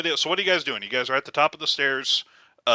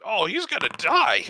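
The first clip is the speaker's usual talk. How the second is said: whiny cultist; 9 semitones higher than usual. Acted. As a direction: whine about losing the cook. Cultist whining about the chef.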